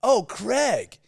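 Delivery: put-on American accent. Gushing American friend naming her new boyfriend, high and bright. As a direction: squeal the name like a smitten American. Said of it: "the way Americans pronounce the name Craig".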